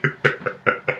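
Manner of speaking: breathy, voiceless giggle; soft wheezy laugh; quiet laugh. Real, not acted. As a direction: crack up softly at your own impression. Cracks up at own retelling.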